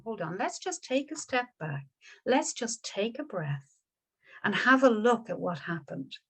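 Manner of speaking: hushed kindly monk voice; calming. Acted. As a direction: talk him down gently. Buddha calms Yasa down.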